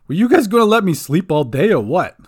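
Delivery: loud, high goblin grumble; cheeky little goblin, just woken. A narrator's reading. Goblin Bink waking up.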